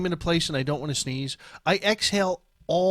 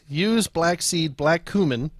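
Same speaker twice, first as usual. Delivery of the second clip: slow; slower than usual. Shown as a demonstration.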